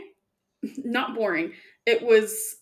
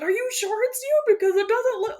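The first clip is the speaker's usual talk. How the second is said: high, doubting voice; mock suspicion; 13 semitones higher than usual. Player doubting her friend's identity, mock suspicious. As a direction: pitch it up, full of disbelief. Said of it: "I was like".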